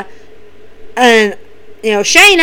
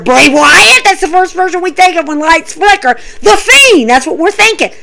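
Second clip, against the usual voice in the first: excited guess; 5 semitones higher than usual. Retold or imitated. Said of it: "we're all looking around going".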